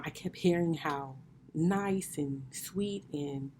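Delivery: usual speaking voice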